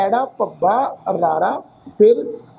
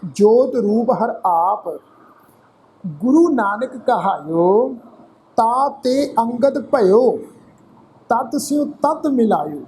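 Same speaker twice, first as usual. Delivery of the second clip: slow, measured Gurbani reading with drawn-out word endings; scripture recitation; much slower than usual. Shown as a demonstration. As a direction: recite phrase by phrase, pausing between.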